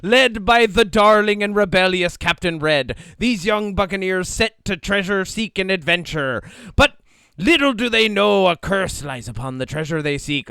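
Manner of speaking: loud, hammed-up pirate storyteller. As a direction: spin the yarn like a pirate captain. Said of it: "say it in a pirate voice".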